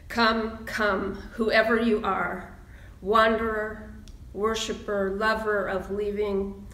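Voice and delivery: slow, measured poem reading. Acted. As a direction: let each word of welcome land. Minister reads Rumi poem.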